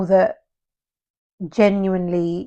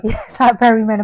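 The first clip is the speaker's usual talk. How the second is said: laughing; 2 semitones higher, faster than usual. Real, not acted. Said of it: "it's not a laughing matter".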